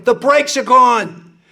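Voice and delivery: loud, high, slow fake alarm; mock panic shout. The president fakes alarm to his guests, a loud, slow mock shout. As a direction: pretend the brakes failed, shouting. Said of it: "and go".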